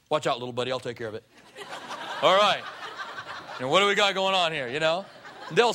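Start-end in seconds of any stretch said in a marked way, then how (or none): 0.1-1.2 protective big guy. Retold or imitated. Big friend steps in to protect his buddy, low and chuckling. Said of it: "they'll be like". 2.2-4.7 louder, laughing tough-guy challenge; mock tough guy. Big friend sizes up trouble, loud and laughing. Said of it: "they'll be like".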